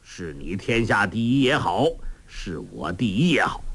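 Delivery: lightly voiced old man, easygoing; a hint of a gruff old master; old beggar master. Old beggar boasting about food.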